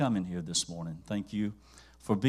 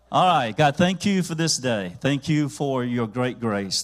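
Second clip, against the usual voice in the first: loud, fervent offering prayer; preaching prayer; 4 dB louder than usual. Acted. Pastor praying over the tithes, loud and fervent. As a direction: pray it out boldly over the congregation.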